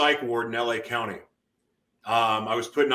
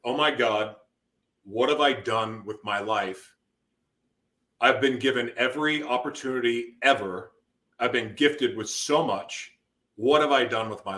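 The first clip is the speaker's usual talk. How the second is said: stunned realization. Retold or imitated. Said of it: "when I realized".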